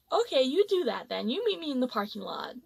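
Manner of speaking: unruffled, imitating a composed comeback; graceful composure. Coworker answering the customer's threat, with composed grace. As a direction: calmly call his bluff, retold. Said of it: "my friend had so much grace".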